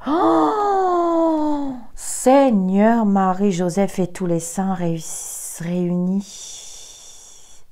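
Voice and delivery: theatrical alarm at the cards, slowing on réunis; dramatic exclamation. Real, not acted. Tarot reader reacting to a bad card, mock dramatic dismay.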